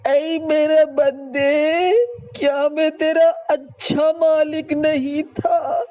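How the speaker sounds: quoting God through tears; tearful preaching. Real, not acted. Preacher voicing God's question, tearful. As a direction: ask it gently with tears.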